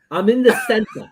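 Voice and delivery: hammed-up Jewish grandmother accent. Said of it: "All I do is my Jewish grandmother".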